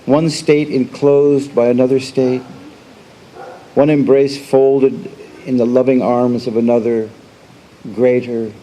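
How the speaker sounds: measured recital with long pauses between phrases; poetry reading. Acted. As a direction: recite it line by line, letting each image stand. Reads own poem aloud.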